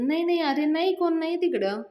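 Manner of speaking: high, loud flustered no; hasty denial. Retold or imitated. Panya to Yasha, hiding Nami: flustered loud denial. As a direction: deny it in a panic.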